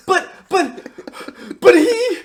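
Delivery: very high, loud stammered objection; mock whiny protest. Philip protesting to teacher about Alec, mock indignant. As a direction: plead your case in a squeaky, hammed-up voice.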